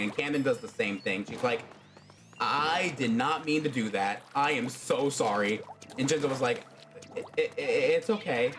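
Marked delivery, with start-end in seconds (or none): 2.4-5.6 embarrassed apology. Retold or imitated. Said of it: "completely red and blushing". 7.2-8.5 flustered stammer. Retold or imitated. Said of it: "Jinzo freaks out".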